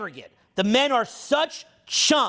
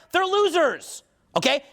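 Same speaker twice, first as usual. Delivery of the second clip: angry; 6 semitones higher than usual. Real, not acted. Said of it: "And I, and I'm angry".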